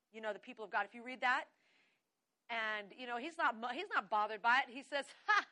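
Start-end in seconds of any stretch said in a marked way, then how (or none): 5.3-5.5 single loud mock laugh; short, unbothered scoff of a laugh; God's scornful laugh. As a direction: let out one dismissive "Ha!". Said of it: "he sits in the heavens and he laughs".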